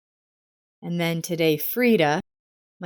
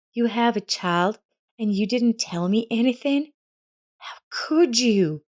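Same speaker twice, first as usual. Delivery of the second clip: shocked; 5 semitones higher than usual. A narrator's reading. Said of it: "Elsa was shocked by the news".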